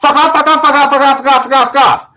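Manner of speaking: high, loud, fast surfer-dude rant; Pauly Shore impression. Host shows a guest what Pauly Shore sounds like, high whiny voice. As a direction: bounce it like a whiny nineties comic. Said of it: "you kinda sound like Pauly Shore".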